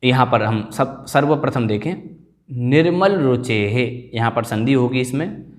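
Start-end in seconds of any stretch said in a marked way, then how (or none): 2.5-4.1 slow निर्मल रुचेः, ending in a clear visarga; careful pronunciation. Shown as a demonstration. Teacher models निर्मल रुचेः slowly for students. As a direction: say रुचेः with the breath at the end. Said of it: "यहाँ पर आपको ध्यान रखना है".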